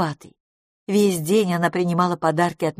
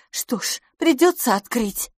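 higher-voiced mild annoyance; grudging, a touch annoyed; irritated; 7 semitones higher than usual. A narrator's reading. Hostess reluctantly goes to answer the door, mildly irritated. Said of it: "сказала мисс Лафос раздражённо".

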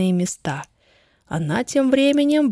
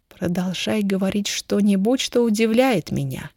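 ordinary delivery

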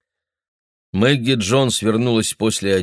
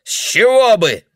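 put-on very high, loud sneering old man; old man refusing to step outside; defiant retort; 14 semitones higher, 7 dB louder than usual. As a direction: refuse her to her face.

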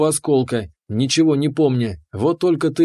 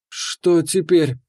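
hoarse; 3 semitones higher, much slower than usual. Acted. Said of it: "хрипло спросила".

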